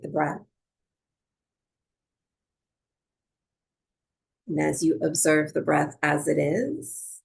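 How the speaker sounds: calm, unhurried meditation guidance with long pauses; measured yoga teacher cueing, leaving space between phrases; guided breathwork. Real, not acted. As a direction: guide them gently into noticing the breath.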